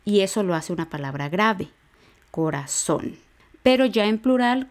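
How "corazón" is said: corazón with the weight on final ZÓN; stress on accented O. Shown as a demonstration. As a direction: land on the last syllable of corazón. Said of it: "Se acentúa en la O".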